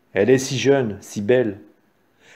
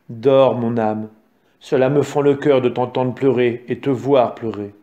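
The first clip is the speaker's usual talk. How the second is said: tender lullaby voice; 3 semitones lower than usual. Acted. Mother lulling her baby.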